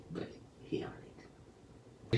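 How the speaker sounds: slow whispered aside. Real, not acted. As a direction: breathe it out slowly, no voice. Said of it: "aside about dad".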